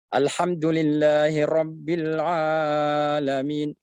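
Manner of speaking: Alhamdulillahi Rabbil Alamin with the a stretched too long; overlong vowel. Shown as a demonstration. Teacher showing the mistake of over-lengthening. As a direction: overstretch the a in Alamin. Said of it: "Itu lebih dari dua harakat".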